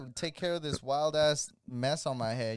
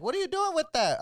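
high mock-shocked voice, pitched way up; incredulous coworker; 12 semitones higher than usual. Cleaning lady asks about the supposed wig, high and aghast. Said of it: "And she's like".

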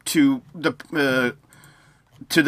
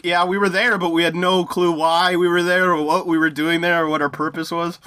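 clueless general voice; 3 semitones higher than usual. Retold or imitated. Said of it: "had three-star generals like".

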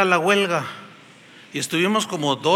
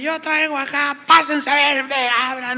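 higher, urgent, let me pass; pushing through; 7 semitones higher than usual. Retold or imitated. Preacher pushing through the crowd to the counter, insistent. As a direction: wave them aside, insistent.

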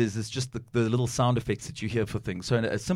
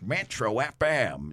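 deep radio voice; slower than usual. Retold or imitated. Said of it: "And he's like".

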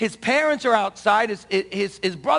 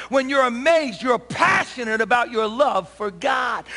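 raised, shouting preacher build; preaching at full force. Acted. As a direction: preach it out to the congregation. Preaching climax.

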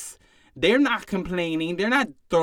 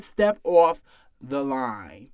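slow dismissal; 5 semitones lower, much slower than usual. Acted.

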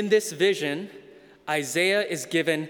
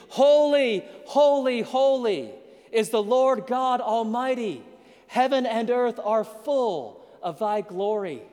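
high and loud, holy cried out in awe; ringing angelic proclamation; 5 semitones higher, 3 dB louder than usual. Acted. Preacher voicing the seraphim to his congregation, high and loud. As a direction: lift it like angels calling across heaven. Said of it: "they sing".

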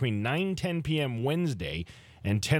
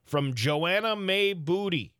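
put-on old-timey voice; 4 semitones higher than usual. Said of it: "special old-timey voice".

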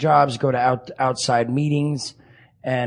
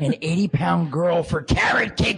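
laughing while talking; 5 semitones higher than usual. Real, not acted. Laughing at own rehab story.

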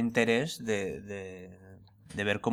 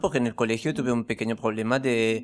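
put-on French accent; 4 dB louder than usual. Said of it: "con este acento extraño".

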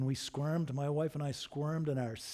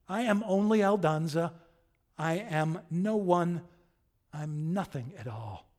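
despairing; 2 semitones higher, 4 dB louder than usual. Acted. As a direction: let the outburst drain away into defeat. Acted outburst subsiding into despair.

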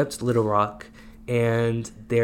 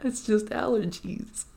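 squeaky denial; 10 semitones higher, 5 dB quieter, slower than usual. Pretend. Denying blame, teasing friend.

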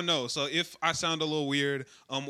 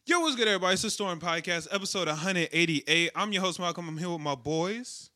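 hype intro; 4 semitones higher, 5 dB louder than usual. Real, not acted. Podcast intro greeting.

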